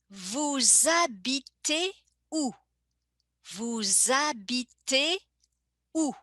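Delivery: "vous habitez" linked, S sounding as Z, H silent; liaison vous-habitez. Shown as a demonstration. Teacher modelling "vous habitez où" with a Z liaison. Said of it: "I make a little connection between vous and habiter".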